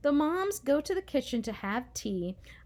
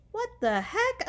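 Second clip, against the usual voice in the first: high indignant yell; 11 semitones higher than usual. A narrator's reading. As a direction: yell at her sister. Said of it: "I yell at Mary".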